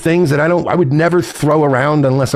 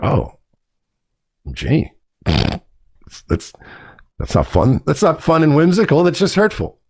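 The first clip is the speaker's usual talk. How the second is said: mock hurt voice. Mocking people who call him a loser, wounded voice. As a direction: parody a wounded complainer. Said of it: "It's like".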